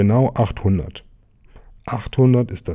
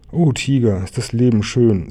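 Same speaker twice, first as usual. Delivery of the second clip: blissful; 3 semitones higher, 3 dB louder than usual. Acted. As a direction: sigh it out with joy at life. Bear rejoices while being carried.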